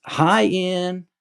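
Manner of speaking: high, bright hello; enthusiastic greeting. Retold or imitated. The star greets her fan by name, high and enthusiastic. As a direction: greet him with a big high lift. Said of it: "really, like, enthusiastically".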